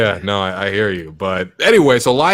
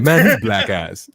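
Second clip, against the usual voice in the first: slow, lower, lightly mimicked Nigerian accent; imitated Nigerian cadence; 4 semitones lower than usual. Showing why his friend's way is funnier, mimicked Nigerian cadence. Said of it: "it's, like, the way you say".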